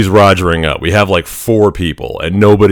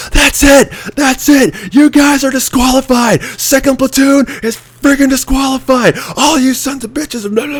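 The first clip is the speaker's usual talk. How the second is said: much higher, furious mock instructor yell; imitated freak-out. Instructor Teeth disqualifying the platoon, imitated furious yelling. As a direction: lose it completely, a drill instructor's tirade. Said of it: "Teeth just freaks the hell out".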